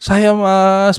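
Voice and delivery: imitated weepy call, drawn out; lightly tearful appeal; retold sobbing. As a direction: act a mild sob without really crying. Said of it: "sambil nangis sesenggukan gitu".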